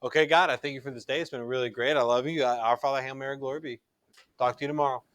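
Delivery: quick, offhand rattled-off prayer; rushed prayer. Shown as a demonstration. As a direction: race through it like a checklist. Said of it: "we gotta make sure that's not our prayer time with God".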